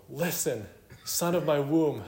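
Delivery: hammed-up mother, pitched high; overdone motherly plea. Mother overdoing it over mundane things, hammed-up plea.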